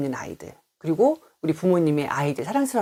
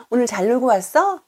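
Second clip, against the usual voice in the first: cheerful question; 6 semitones higher, 4 dB louder than usual. Shown as a demonstration. Parent asking child cheerfully.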